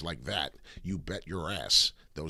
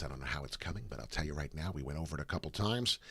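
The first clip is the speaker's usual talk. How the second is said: ordinary talk, nothing marked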